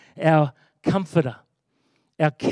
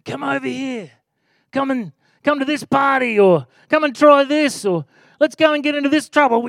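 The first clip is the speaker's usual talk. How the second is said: higher, coaxing tempter voice; tempting voices; 6 semitones higher than usual. Retold or imitated. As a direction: lure them in like a tempter. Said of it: "we get all sorts of other voices".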